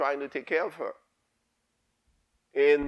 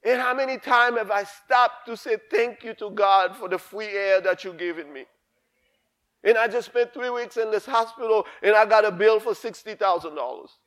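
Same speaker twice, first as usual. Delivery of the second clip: put-on old woman's lament; 6 semitones higher than usual. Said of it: "This is".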